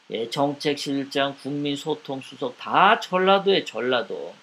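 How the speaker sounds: ordinary talk, nothing marked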